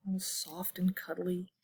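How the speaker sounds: soft breathy whisper. Acted. Telling kids about the bunny, whispering. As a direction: whisper it tenderly.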